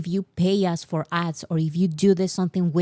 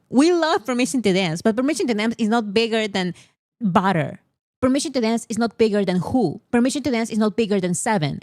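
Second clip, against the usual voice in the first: heated rant; 3 semitones higher than usual. Real, not acted. Heated rant listing bigger hits.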